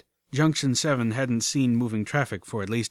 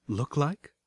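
warning; 3 semitones higher, 4 dB quieter than usual. A narrator's reading. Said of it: "I asked warningly".

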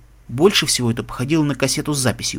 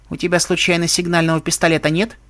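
joking; 3 semitones higher than usual. Acted. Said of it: "С шутливой интонацией спросила Строк".

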